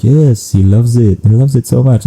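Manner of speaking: imitated enthusiasm. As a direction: mimic an eager fan's agreement. Acting out his enthusiastic answer.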